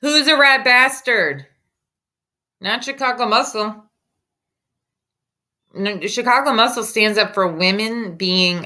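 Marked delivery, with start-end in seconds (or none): 0.0-3.8 indignant. Real, not acted. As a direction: throw the insult back at him. Streamer rejects the insult.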